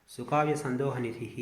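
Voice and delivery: సుకావ్య సందోహ నిధిః repeated slowly at an ordinary level. Shown as a demonstration. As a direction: calmly say the verse line again, slowly. Teacher repeats verse line.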